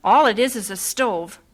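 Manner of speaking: loud indignant protest; fed-up wife; exasperated complaint. Acted. Wife upset at the kitchen.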